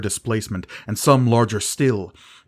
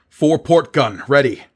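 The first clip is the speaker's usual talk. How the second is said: louder, higher call; shouted report; 5 semitones higher, 7 dB louder than usual. A narrator's reading. Gerard answers Tangarth, shouting. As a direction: call it across the deck.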